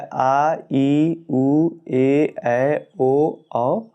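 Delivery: आ, ई, ए, ऐ, ओ, औ each held long; long vowels demo. Shown as a demonstration. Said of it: "आदि दीर्घ स्वर कहलाते हैं". (दीर्घ स्वर खींचकर बोलना)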